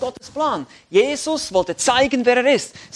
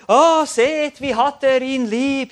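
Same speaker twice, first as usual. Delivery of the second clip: gushing onlookers, higher and louder; a bit syrupy; 4 semitones higher, 6 dB louder, much slower than usual. Acted. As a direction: coo it with mock sentimentality. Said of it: "so dieses bisschen Sülzige". (etwas sülzig, gespielt gerührt)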